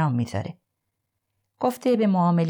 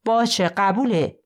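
louder, slow, higher outburst of agreement; sudden shout; 4 semitones higher, 3 dB louder, slower than usual. Acted. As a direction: blurt it out, drawn out and loud. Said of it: "کوین ناگهان فریاد زد".

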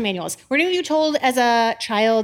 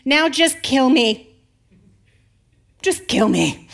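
louder, sulky exasperated outburst; exasperated rant; 3 dB louder than usual. Acted. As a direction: sulk dramatically at God. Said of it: "read this with an attitude".

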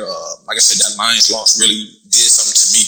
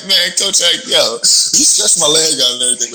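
higher, laughing protest; 7 semitones higher than usual. Retold or imitated. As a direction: laugh through the complaint.

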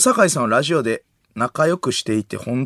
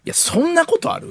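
retold disbelief. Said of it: "みたいなって、内海さんが".

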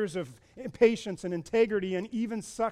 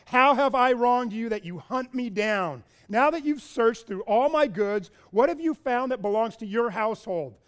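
indignant confrontation; 3 semitones higher, 5 dB louder than usual. Retold or imitated. Jacob angrily confronting Laban.

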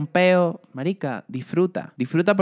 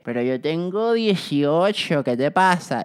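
mock fifty-year-old; slower than usual. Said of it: "tienes cincuenta y es y que".

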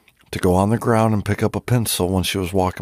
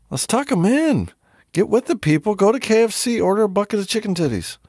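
hyped promo; 9 semitones higher than usual. Acted.

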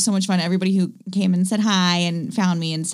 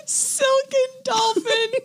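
savoring; much slower than usual. Pretend. Repeats the phrase savoring it.

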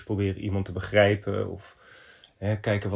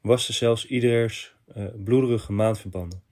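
measured, earnest letter read; reading a letter aloud; 4 dB louder than usual. Acted. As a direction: read this listener's story out steadily. Reads out a listener's letter. (een ingezonden brief voorlezen)

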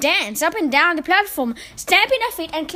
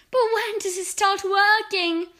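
eager witches; 6 semitones higher than usual. A narrator's reading. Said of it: "cried the audience".

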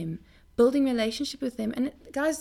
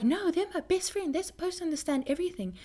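higher-pitched acted protest, quickening; mock indignant; 7 semitones higher, faster than usual. Preacher mimicking someone disappointed by a best friend, mock indignant. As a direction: complain like a let-down friend.

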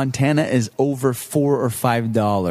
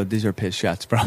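can't hold it together; laughing through it; 6 semitones lower, 4 dB quieter than usual. Retold or imitated. Retelling his warning to friends while laughing. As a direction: quote broken up by laughter. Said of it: "He goes".

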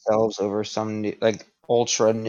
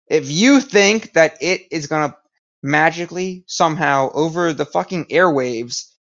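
a touch raised, playing an exasperated president; mock scolding rant; 4 semitones higher than usual. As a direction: lecture the public in mock outrage. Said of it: "I'd be cursing at everyone the entire time".

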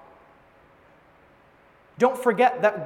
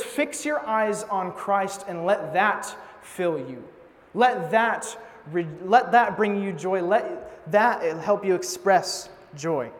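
gentle exhortation. Retold or imitated. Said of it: "He says".

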